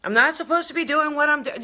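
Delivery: flustered imitation of a worried seeker; mock panic. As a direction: imitate someone spiraling in worry. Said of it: "everybody is like".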